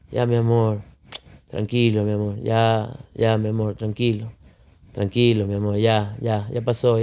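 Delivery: put-on calm a crying baby in your arms; gentle sleepy there-there; soothing a baby. Dad soothing baby while half-asleep.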